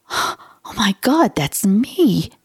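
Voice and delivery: a touch of retold shock, rising on God; reliving the moment she first read it; stunned realization. Reading about a stranger's symptoms, mild astonishment. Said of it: "I went".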